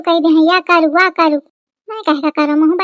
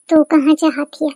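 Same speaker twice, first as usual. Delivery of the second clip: mock sob; 4 semitones lower, 3 dB quieter than usual. Wife sobs during quarrel.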